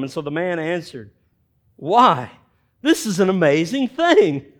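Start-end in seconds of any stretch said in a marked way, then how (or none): 1.8-4.5 amazed. Acted. Healed man answers the Pharisees.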